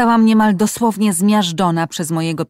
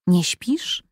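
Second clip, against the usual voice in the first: whisper. Acted. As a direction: breathe it so no one else wakes. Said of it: "usłyszała szept przez dziurkę". (szeptem, przez dziurkę od klucza)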